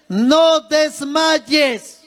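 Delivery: No desmayes gritado, muy lento y alargado; grito de exhortación. Real, not acted. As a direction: clama No desmayes a la iglesia. Predicación enfática, exhorta a la iglesia. (el predicador grita No desmayes a la congregación)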